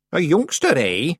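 high-pitched mild jibe; a touch of spite in an old witch's question; nasty. A narrator's reading. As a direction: needle them lightly. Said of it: "said Miss Treason nastily".

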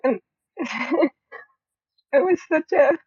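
real emotion, voice nearly breaking; choked up. Real, not acted. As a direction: push through rising tears. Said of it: "I never thought I would be so emotional".

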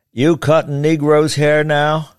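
a hard, accusing question, drawn out; disapproving judge. Acted. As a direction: demand it like an offended old judge. Judge confronts barber.

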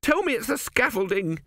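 scared brother pleads with his twin; pleading. Acted. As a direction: beg to be reassured. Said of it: "he pleaded".

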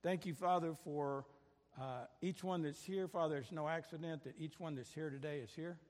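earnest prayer voice, pausing between phrases; a pastor's heartfelt spoken prayer. Real, not acted. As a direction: pray aloud over the congregation, unhurried. Leads congregation in prayer.

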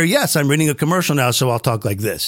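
quick start, sinking to a deep read; low commercial-narrator voice; commercial voiceover. Shown as a demonstration. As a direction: switch into a low announcer read. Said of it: "how come you can't switch from this".

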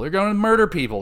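mock alarm. Real, not acted. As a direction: play up the outrage, half-joking.

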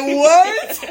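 high, loud laughing what; a loud, high, laughing what at a baffling sermon; baffled what. Retold or imitated. Confused by pastor's accent.

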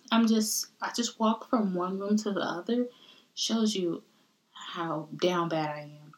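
out of breath from walking; breathy, winded speech; heavy breathing. Real, not acted. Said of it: "I'm sorry I'm breathing heavy".

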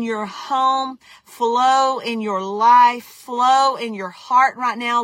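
commanding spiritual warfare prayer; fierce commanding prayer. Acted. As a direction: bind it with full authority. Prays over the women, commanding.

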